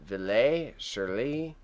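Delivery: exaggerated French accent on the names. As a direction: overdo a French accent reading the titles. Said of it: "I went too much with the French accent".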